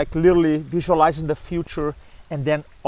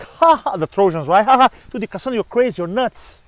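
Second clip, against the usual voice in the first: higher, jeering laughter; mocking laugh; 4 semitones higher than usual. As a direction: laugh her off as crazy. Trojans mock Cassandra.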